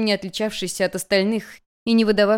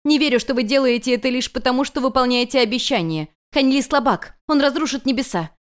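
higher, louder accusing outburst; angry accusation; 6 semitones higher, 3 dB louder than usual. Acted. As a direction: hurl the accusation at him. Heiress angrily accuses master.

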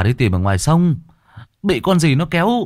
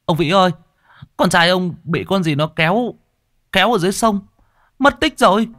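high, loud frantic news, climbing higher; panicked call; 10 semitones higher, 4 dB louder than usual. Acted. Villager rushing in to tell the father, panicked and loud. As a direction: blurt it out in a rising panic. Messenger bursts in with bad news.

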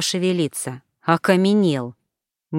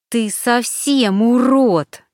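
high, slow, venomous insult; hissed insult; 6 semitones higher, much slower than usual. Acted. Alina hisses back at Turanov, venomous. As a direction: spit it at him through clenched anger. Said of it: "прошипела в ответ Алина".

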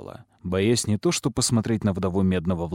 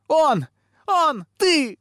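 very high, choked-up shrieks; breaking into hysterics; 5 dB louder, much slower than usual. A narrator's reading. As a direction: shriek each word apart, near sobbing. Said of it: "И девочка разрыдалась".

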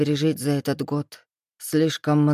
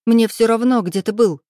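louder, higher snarl; snapping back; 5 semitones higher, 7 dB louder than usual. Acted. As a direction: bite back at him hard. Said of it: "огрызнулась Вика". (Вика огрызается: громко и зло)

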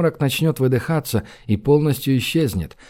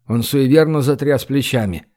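usual speaking voice

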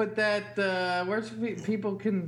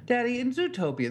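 put-on higher, pleading little-kid voice; whiny child; 8 semitones higher than usual. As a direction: pester Daddy like a toddler. Dad mimics daughter's pestering question.

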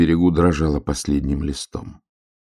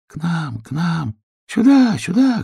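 much higher, eager calls; calling from all around; 11 semitones higher than usual. A narrator's reading. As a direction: beg the hare to come over. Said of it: "кричали со всех сторон". (высокие нетерпеливые выкрики)

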